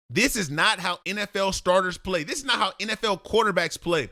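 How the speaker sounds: "This is not how N F L quarterbacks play", hitting "this" then "not"; emphatic scolding. Real, not acted. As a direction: scold him word by word.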